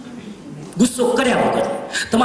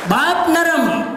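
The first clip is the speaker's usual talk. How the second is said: recited saying; slower than usual. Shown as a demonstration. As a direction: recite the variant with weight. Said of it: "second version of saying".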